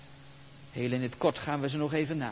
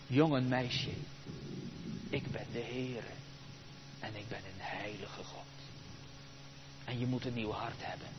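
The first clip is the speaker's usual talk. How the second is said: God speaking; 7 semitones lower, 11 dB quieter than usual. Acted. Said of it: "Deze twee dingen".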